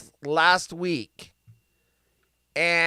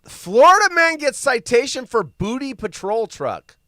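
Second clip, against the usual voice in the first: headline read; 6 semitones higher, 7 dB louder than usual. Shown as a demonstration. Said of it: "My new show".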